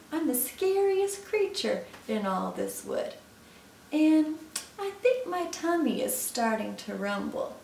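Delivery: lightly voiced mouse, playfully menacing; boastful mouse. Mouse warns Gruffalo its tummy is rumbling, boastful. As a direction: build up to a mock threat.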